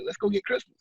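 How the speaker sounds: high, bright, excited invitation; spring the good news on her; a retold burst of glee; joyful announcement. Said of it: "I said".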